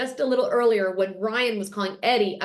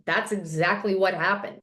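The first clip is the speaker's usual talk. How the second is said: quoting an unruffled answer, slightly low; calm reply; 3 semitones lower than usual. Retold or imitated. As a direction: answer calmly, without rising to it. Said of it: "Eddie very calmly replies with".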